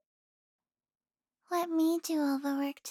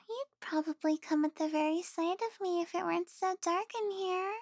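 teasing; faster than usual. Acted. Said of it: "I'm teasing".

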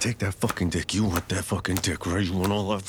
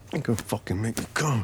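higher, urgent and fast; fast, higher urgent repeat; rising urgency; 5 semitones higher, faster than usual. Acted. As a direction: push it up with rising need. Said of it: "repeated higher".

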